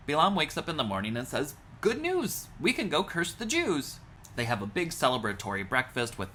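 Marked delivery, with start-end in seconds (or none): 1.8-4.0 high, excited announcement; gleeful news. Retold or imitated. Bilam cheerfully telling the Moab delegation the good news. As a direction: burst out with delighted good news.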